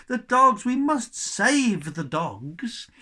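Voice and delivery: high, loud cry; boy's shout. A narrator's reading. Cabin boy shouting to save the pugs. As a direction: cry out in alarm. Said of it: "shouted Shen".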